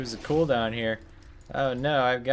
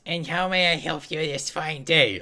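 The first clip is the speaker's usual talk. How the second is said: higher, benevolent priest blessing a visitor; a hint of a gentle old cleric; kindly priest; 4 semitones higher than usual. Priest NPC voiced.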